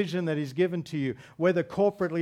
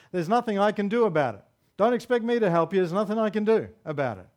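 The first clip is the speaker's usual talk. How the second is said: mock helpless whiner; 2 semitones higher, faster than usual. Pastor mimicking a helpless churchgoer, quick and complaining. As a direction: rattle it off like someone who's given up.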